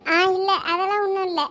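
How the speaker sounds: acted teary voice, brushing it off; tearful denial. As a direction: deny crying through held-back tears. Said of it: "என்ன அழுதுகிட்டா இருக்க". (அழுகையை அடக்கிய குரல்)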